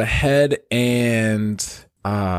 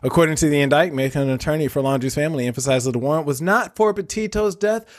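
news anchor voice; 3 semitones higher than usual. Pretend. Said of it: "give my best news anchor voice".

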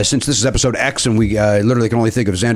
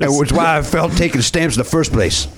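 put-on Cajun accent; 3 semitones higher than usual. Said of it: "doing an accent".

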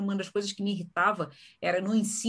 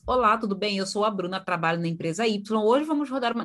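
mildly formal, scripted interviewer intro "Olá, tudo bem"; stiff formal opening. Shown as a demonstration. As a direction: read the intro like a corporate script. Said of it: "eu nunca começo". (entrevistadora formal e engessada)

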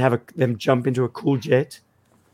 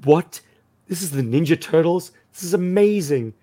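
amazed discovery; 4 semitones higher than usual. Retold or imitated. Gamer recalling the friends' discovery of the Turtles game, amazed. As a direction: imitate an amazed, higher-pitched reaction. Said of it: "we were like".

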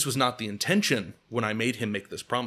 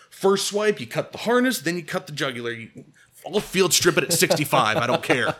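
defiant boast; 4 semitones higher, 5 dB louder than usual. Retold or imitated. Defiantly boasting in acted argument.

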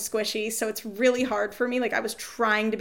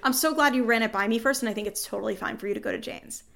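sweetly fake-polite retelling; overly nice words with a bite; passive aggressive. Retelling her reply to the partner, a little passive aggressive. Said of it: "Little passive aggressive".

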